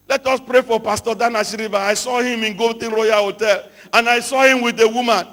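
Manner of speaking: a hammed-up gossip shouting, scandalized; mock-alarmed gossip rallying the group loudly; gossiping prayer leader. Gossip prayer cell leader spreading news about a pastor, shouting. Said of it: "somebody who is a gossip".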